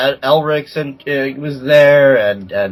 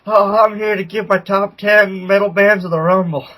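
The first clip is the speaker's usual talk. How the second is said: Levi voice; 3 semitones higher than usual. Retold or imitated. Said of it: "you're the first one to do the voice".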